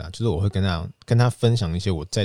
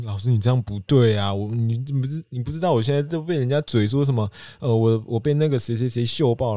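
mildly raised, stumbling complaint; aggrieved protest; 4 semitones higher than usual. Retold or imitated. Student telling teacher how others mock him, aggrieved. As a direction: plead your case, a touch worked up.

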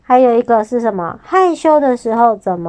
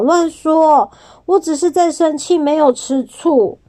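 raised, indignant protest, slowing at the end; indignant denial; 5 semitones higher than usual. Acted. Harang snaps back at Jubi, indignant. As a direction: insist you're not jealous, only mad. Harang denies being jealous, annoyed.

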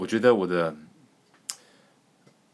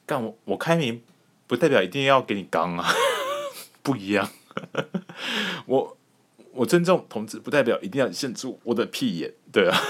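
indignant inner retort; 5 semitones higher than usual. Retold or imitated.

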